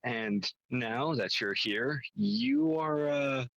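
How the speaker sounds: measured scene-setting with deliberate pauses; game story pitch. Acted. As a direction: lay out the premise piece by piece, lifting key phrases.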